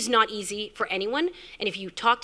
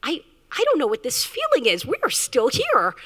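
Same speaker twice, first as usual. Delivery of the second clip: higher, quicker, a bit louder, flustered and giddy; flustered excitement; 5 semitones higher, 4 dB louder than usual. Retold or imitated. Founder recalling her thoughts during the long meeting, flustered and giddy. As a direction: rush it out like a nervous first date.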